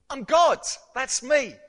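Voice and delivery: a preacher's ringing cry of I'm God; ringing proclamation. Acted. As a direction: proclaim it to the back row. Preacher proclaims Jesus' claim.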